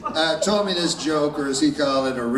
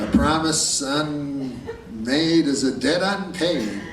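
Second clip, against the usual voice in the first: mock solemn proverb; much slower than usual. Solemn proverb delivered mock-grandly.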